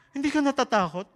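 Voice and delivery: high, loud amazed question; stunned that he's not scared. Retold or imitated. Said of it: "nagpalakpakan sila". (gulat na tanong)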